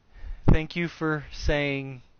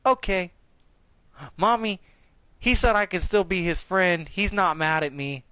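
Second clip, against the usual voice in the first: put-on little girl voice; 5 semitones higher than usual. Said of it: "She goes".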